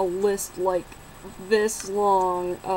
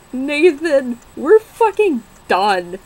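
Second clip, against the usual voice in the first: loud, slow, final; firm breakup yell; 6 semitones higher, 11 dB louder, slower than usual. Retold or imitated. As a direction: slam the door on him. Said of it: "And I'm like".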